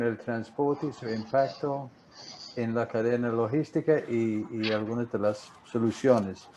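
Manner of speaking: Spanish with an American accent; American English speaker's Spanish; gringo accent spanish. Real, not acted. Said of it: "sigo hablando como gringo". (español con acento gringo)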